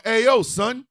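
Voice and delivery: loud, fast street-style confrontation; mock confrontation, loud and quick; imitating a defiant worker. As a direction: talk fast and loud like a fed-up worker calling someone out. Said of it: "federal workers were out here going".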